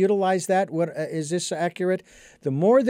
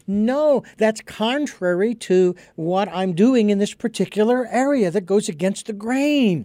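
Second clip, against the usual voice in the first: acted protest; 4 semitones higher than usual. Acted argument with an inner prompting.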